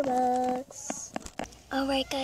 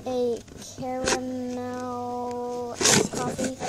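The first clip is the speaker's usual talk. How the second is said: pop-star act; 6 dB louder, slower than usual. Pretend. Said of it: "I'm gonna first be a singer".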